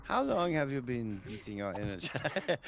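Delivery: mock German psychoanalyst; comic German shrink; German accent. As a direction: question the patient in a put-on German accent. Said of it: "Why are you doing a German accent".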